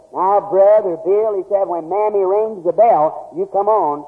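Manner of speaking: put-on slow, lightly country-accented southern preacher friend; a hint of rural southern accent, unhurried; country drawl imitation. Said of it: "he kinda talks country".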